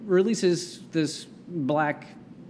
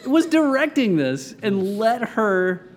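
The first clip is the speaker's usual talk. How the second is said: laughing; 7 semitones higher, 4 dB louder, slower than usual. Real, not acted. Incredulous, laughing.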